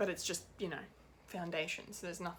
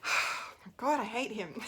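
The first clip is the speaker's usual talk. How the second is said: exasperated outburst; 3 semitones higher, 5 dB louder, slower than usual. Real, not acted. Fan venting about the villain she hates, exasperated. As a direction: burst out in real exasperation.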